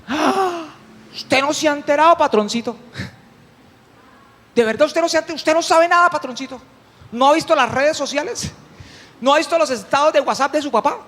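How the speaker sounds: gossipy farmhand. Acted. Servant Jacinto teasing the elder brother, gossipy. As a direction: lightly play the nosy servant. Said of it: "capataz de finca".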